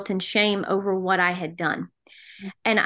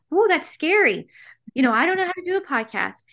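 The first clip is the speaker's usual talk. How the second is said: high-pitched mock alarm, then hurried excuse; retold alarm; 7 semitones higher, faster than usual. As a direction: act out balking at a scary request. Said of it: "And I'm like".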